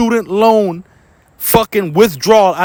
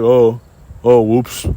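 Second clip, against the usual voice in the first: mock careless whoops; 7 semitones lower, much slower than usual. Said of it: "and then be like".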